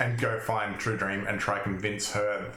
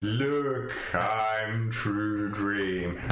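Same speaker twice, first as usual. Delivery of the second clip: slow, drawn-out dreamy claim; True Dream voice; much slower than usual. Pretend. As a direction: stretch it out like a dreamer. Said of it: "I wanna hear you say it in a True Dream voice".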